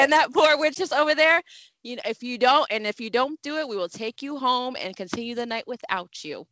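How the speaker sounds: lightly acted proper reprimand, quick in places; a mildly hammed-up stern lecture at the dinner table; stern Carlton performance. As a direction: scold her primly like Carlton. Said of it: "I'm doing a whole performance in this car".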